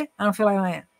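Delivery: "I don't feel like doing it" run together indistinctly; imitated slurred slang. Mother repeats her son's unclear reply, words slurred together. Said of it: "ele falou assim".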